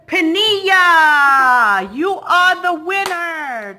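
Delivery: joyful winner call; excited shout. Real, not acted. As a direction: shout the winner's name to the crowd. Announcing raffle winner excitedly.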